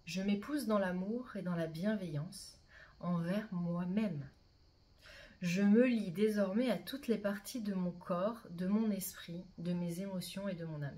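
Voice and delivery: measured, deliberate mantra reading; mantra recitation. Acted. Guide reads the sacred mantra to her listeners, measured recitation. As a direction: recite it as a personal vow.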